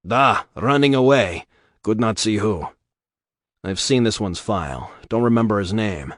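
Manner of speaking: put-on Karlowski in a lightly held Russian accent, gruff; a hint of a blunt Russian dockside informant.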